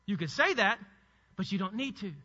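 normal talking voice

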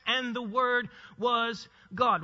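slow, "was" and "God" set apart; measured, separated stress on WAS and GOD; deliberate word order. Shown as a demonstration. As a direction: space out "was God" with weight. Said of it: "if we just use the order".

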